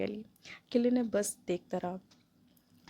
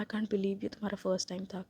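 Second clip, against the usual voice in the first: said softly; 6 dB quieter than usual. Acted. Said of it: "धीरे से बोला".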